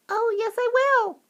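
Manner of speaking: very high tiny squeak; defiant mouse-sized boy. A narrator's reading. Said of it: "squeaked the tiny voice".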